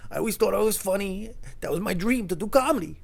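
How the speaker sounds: high, plaintive mock whimper; imitating near tears. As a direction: lament a lost dream as a drunk big guy. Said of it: "he almost started crying".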